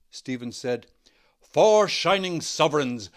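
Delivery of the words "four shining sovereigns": loud, slow, delighted cry; cried with delight. A narrator's reading. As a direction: savour each word with glee. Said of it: "cried with delight".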